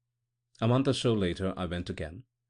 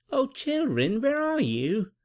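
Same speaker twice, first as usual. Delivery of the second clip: higher, loud call with a lifted oh; 5 dB louder, slower than usual. A narrator's reading. Blind woman calling for the children in the wood, loud. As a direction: call out searching, a touch anxious. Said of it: "the blind woman crying".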